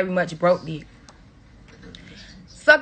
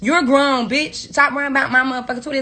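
angry retort; 3 semitones higher than usual. Real, not acted. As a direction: throw it right back at them, hard. Snapping back at critics.

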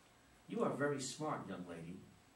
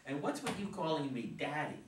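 laughing. Acted. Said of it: "Harry laughs".

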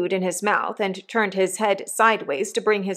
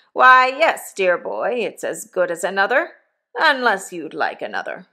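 a lightly voiced rough old convict, louder; hint of a coarse old convict talking to his boy; 3 dB louder than usual. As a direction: give the old convict a bluff, hearty push. Convict Magwitch voiced in story.

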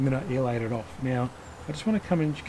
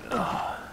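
short, higher-pitched grunt of effort; effortful groan; 9 semitones higher than usual. Real, not acted. Vlogger hunting for tools mid-video, effortful groan. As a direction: let out a brief "ugh" of effort. Reaching to find his tools.

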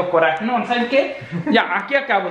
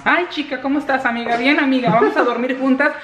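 high, sing-song gossiping friends; mock girly voice; 4 semitones higher than usual. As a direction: camp up two chatty girlfriends. Mocking two women friends.

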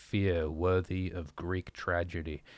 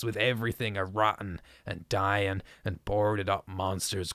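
shrill shouting. Acted. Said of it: "Zadok was really screaming now".

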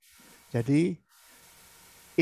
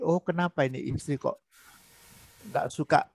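gentle listening; 3 semitones lower, 5 dB quieter than usual. Shown as a demonstration. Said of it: "Dengarkan baik-baik".

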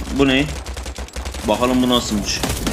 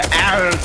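short imitated dying "arr" cry; a cartoonish dying grunt; mocking a character's death sound; mock death groan; 5 semitones higher than usual. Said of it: "diye ölme şekli mi var lan".

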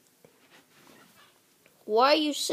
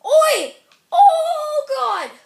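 loud high laughing yell; laughing shout; 12 semitones higher, 12 dB louder, much slower than usual. Real, not acted. Kid laughing at his car's voice crack, loud shout.

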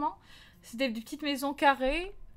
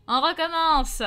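firm command; 4 semitones higher, 8 dB louder, slower than usual. Retold or imitated. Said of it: "Il dit".

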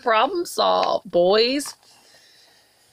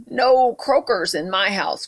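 grumbling turtle; 3 dB louder than usual. Acted. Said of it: "grumbled Turtle".

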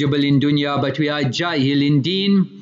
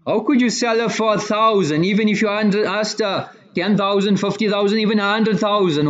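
retold disbelief, pitched higher; mildly incredulous; 5 semitones higher than usual. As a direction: chide him in raised pitch, piling up the figures. Companions chide him for selling cheap.

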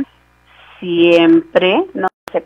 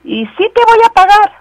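mock oath; 12 semitones higher, 5 dB louder than usual. Pastor imitates a debtor swearing to God, mock pleading. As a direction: beg with a hollow promise. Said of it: "muchos hasta juran en vano".

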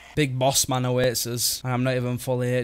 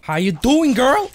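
flirty greeting; 10 semitones higher, 7 dB louder than usual. Pretend. Flirting with an enemy.

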